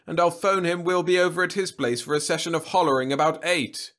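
put-on loud, hearty old man voice. A narrator's reading. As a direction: coax her like an old buddy.

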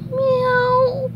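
very high, thin mew; Gary's sad meow. Acted. Snail left behind with eyes welled up, high sad meow. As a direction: mew sadly on one high note. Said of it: "he said sadly".

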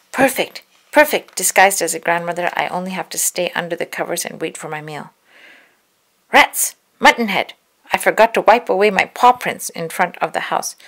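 gloat, then snap at yourself; wolf in disguise cursing his mistake; scheming wolf. Acted.

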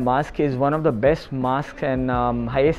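muffled masked speech; through a face mask. Real, not acted. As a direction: mouth covered by cloth. Seen 4: Cloth face mask covers mouth and nose throughout the labelled words.

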